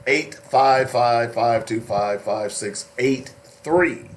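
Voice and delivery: phone number read out slowly, digit by digit; slow it down a little, spacing out the digits. Shown as a demonstration. Host repeating the number for listeners who missed it, slowed down. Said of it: "let me slow it down just a little bit".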